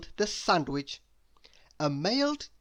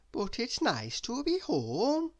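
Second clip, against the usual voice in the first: higher, slow, contented lady voice; slow and content, lifted up high; Miss Neat; 8 semitones higher, slower than usual. A narrator's reading. Miss Neat glad to be home, slow and higher.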